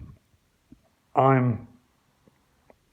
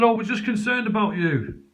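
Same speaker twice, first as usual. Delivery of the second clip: mock concern; 7 semitones higher than usual. Police voiced at the door.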